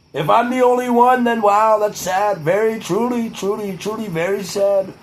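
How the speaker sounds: a hint of a blustering politician; Trump-style ramble. Rambling to the camera as a blustering politician, lightly voiced.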